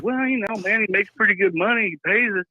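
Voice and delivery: a hint of a chatty hick explaining; redneck clerk. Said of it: "He was like".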